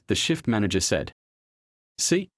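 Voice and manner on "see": excited. A narrator's reading. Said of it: "eyes shining".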